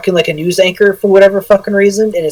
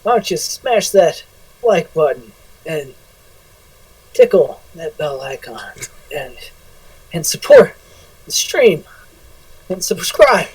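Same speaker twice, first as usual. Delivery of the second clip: mock streamer plea; 3 dB quieter, slower than usual. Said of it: "you do your".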